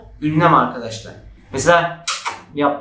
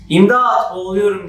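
mock cry for help; 3 semitones higher, 3 dB louder than usual. Shown as a demonstration. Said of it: "diye bağırdım".

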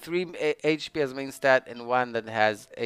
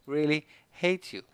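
angry outburst; 7 semitones higher, 11 dB louder than usual. Real, not acted. Gamer to game after a bad defense roll, angry outburst. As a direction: curse the game, loud and high. Rages at getting defense again.

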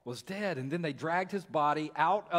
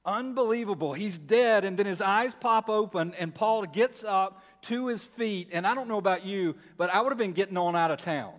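rising, louder burst of wonder; amazed preaching; 4 semitones higher, 4 dB louder than usual. Real, not acted. Preacher marveling to congregation, louder and higher. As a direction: let the amazement break out louder.

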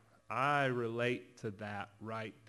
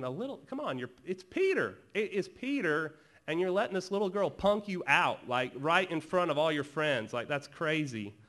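high-pitched, louder disbelief; incredulous ribbing; 5 semitones higher, 5 dB louder than usual. Pretend. Preacher teasing Peter over a servant girl, incredulous and high. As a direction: scold him in mock disbelief.

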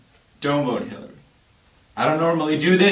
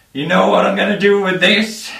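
louder tease; 3 semitones higher, 3 dB louder than usual. Acted. Teasing build-up repeated.

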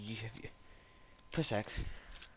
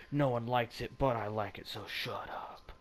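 defiant; 2 semitones higher than usual. Real, not acted. Telling viewers who dislike the game to shut up, defiant. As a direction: brush off the critics, slowing at the end. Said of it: "Why you gotta say it like that?".

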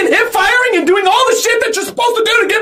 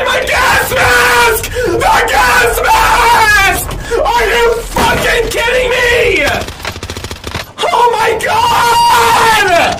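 slow, wailing outraged shout; real despair over lost gear, dragged out; anguished rage; much slower than usual. Real, not acted. Streamer wails at chat over gas mask, anguished slow shout.

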